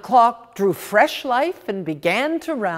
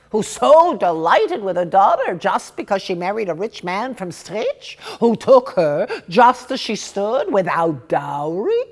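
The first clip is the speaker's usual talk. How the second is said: animated, aggrieved storyteller's character; indignant gossiping woman. Acted. Woman complaining to a listener about another woman's nerve, indignant gossip. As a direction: gossip with lively, swooping indignation.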